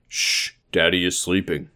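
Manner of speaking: soft, low shushing; hushing. Acted. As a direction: hush a child so someone can sleep. John hushes whispering child.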